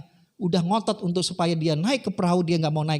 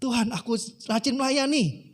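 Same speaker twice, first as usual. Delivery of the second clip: raised-pitch acted complaint to God; protesting; 5 semitones higher than usual. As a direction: list merits as a mild protest. (protes ringan kepada Tuhan)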